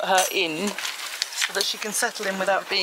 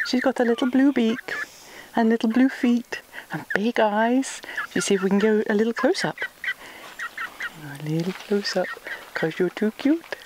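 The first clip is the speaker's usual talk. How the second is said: whispering. Real, not acted. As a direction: hush so she's not scared. Whispering near chick.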